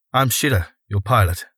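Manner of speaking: a lightly voiced woman introducing herself; female pilot. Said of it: "said an unfamiliar female voice".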